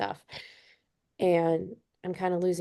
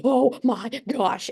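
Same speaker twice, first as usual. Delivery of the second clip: retold hyperventilating shock; 5 semitones higher, much slower than usual. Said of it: "I am literally hyperventilating".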